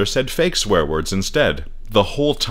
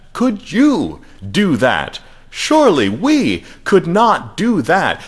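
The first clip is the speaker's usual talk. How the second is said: slow, swooping up and down with dramatic pauses; half Captain Kirk, half Kermit the Frog, heavy italics; high, carrying preacher voice; 10 semitones higher, 4 dB louder, slower than usual. A narrator's reading. Mister Shubble answering questions, high, slow, dramatic rhetoric. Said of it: "His high, carrying voice would go up and down".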